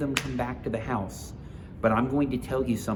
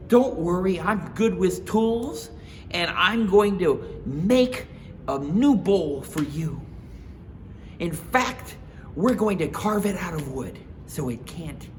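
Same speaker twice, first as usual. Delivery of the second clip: Mama Bear comforting; 8 semitones higher, 6 dB louder than usual. Acted. Mama Bear comforting crying Baby Bear. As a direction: reassure the little cub gently.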